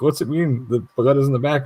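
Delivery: lightly voiced mom asking; curious mom. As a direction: ask it innocently, like a mom. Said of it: "she's like".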